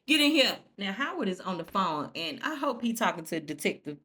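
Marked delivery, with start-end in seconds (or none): 0.1-0.6 playful call. Pretend. Playful urging to the character.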